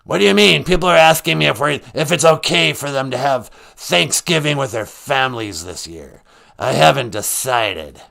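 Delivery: a mock health official checking in; Doctor Fauci. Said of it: "Doctor Fauci".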